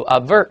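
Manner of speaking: "aver" stressed on its second syllable, a-VER; light first vowel in "aver", weight on VER. Shown as a demonstration. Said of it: "重音还在第二音节啊".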